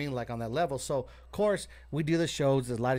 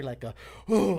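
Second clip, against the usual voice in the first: big gasp; 4 dB louder than usual. Retold or imitated. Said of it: "the biggest breath that you could ever hear".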